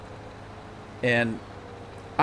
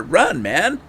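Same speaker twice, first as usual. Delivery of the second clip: raised, higher voice, mock urgency; urging the character; 6 semitones higher, 5 dB louder than usual. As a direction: call out to your game character. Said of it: "I'm telling the character".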